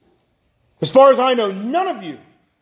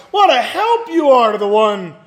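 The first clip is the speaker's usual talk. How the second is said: mocking; 3 semitones higher than usual. Job answers his friends who failed him, mocking. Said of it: "in a mocking voice".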